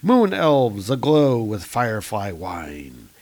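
lilting storybook narrator, stretched phrase endings; grand narration. A narrator's reading. Narrator introducing the kingdom of the light elves, grand narration. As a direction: read it as a sweeping fantasy prologue. Reads comic captions in storybook style.

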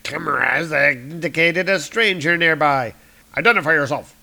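lightly voiced robotic sentry demanding; sentry guard voice. Sentry guard challenging Doom, stern. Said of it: "It said".

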